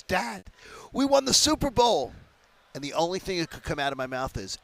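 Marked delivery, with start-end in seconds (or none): 0.0-2.1 high, loud teary daughter voice; mock bawling teenage daughter; imitating sobbing daughter. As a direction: squeak it out like a daughter crying with joy. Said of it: "she's just bawling, crying".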